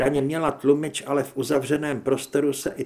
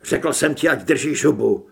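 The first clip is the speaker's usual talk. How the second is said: loud, snapping back at the voice inside; angry normal voice; 5 dB louder than usual. Acted. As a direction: shut the other voice up. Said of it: "hlas se vrátil k normálu".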